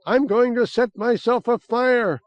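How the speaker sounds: high, loud hysterical yell. Acted. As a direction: rant wildly while prancing about.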